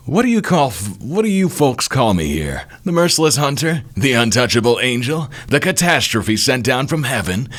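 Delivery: high, theatrical villain voice; showy high-pitched boasting; boastful villain. Acted. Voices the boastful enemy Oster.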